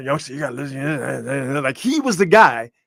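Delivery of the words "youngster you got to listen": scratchy, rasping put-on voice. Recalling the guy who introduced them to hip hop: imitating a raspy voice. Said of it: "because he had that raspy voice".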